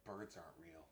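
deep conspiracy voice. Pretend. Conspiracy joke voice.

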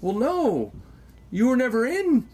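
retold refusal. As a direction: set her straight in a put-on voice. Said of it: "and I said".

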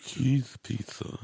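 slow, loud put-on cartoon voice; squeaky cartoon voice. Shown as a demonstration. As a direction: drag it out in a goofy cartoon voice. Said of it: "somebody talking like this the whole time".

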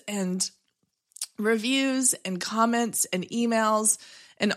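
emotional. Real, not acted. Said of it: "getting emotional on the show".

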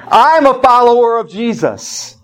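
joyful testimony. Retold or imitated. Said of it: "she was saying".

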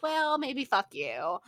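drawn out, mock sweet defiance; slowly, with a fake polite lilt; slow defiant retort. Answering the school's stalling with slow sarcasm. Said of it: "I'm just like".

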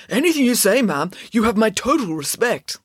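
high-pitched, placating deference; cowed. A narrator's reading. Boy placates the angry nun from behind a friend, cowed. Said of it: "cowering behind Melanie".

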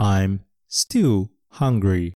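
I'm still hungry very slowly, still stressed; slow repeat-after-me. Shown as a demonstration. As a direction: model it slowly for the class. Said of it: "もう一度". (ゆっくり一緒に言うお手本)

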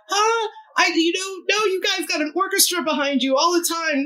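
high, flustered protest; panicky. Retold or imitated. Panicked reply, freaking out.

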